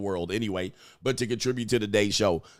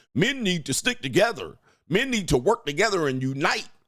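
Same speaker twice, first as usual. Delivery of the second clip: sneering, mocking parody in a pitched-up voice; 9 semitones higher than usual. Mocking men who call for unity, doing a mocking put-on voice. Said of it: "I always love to do that voice".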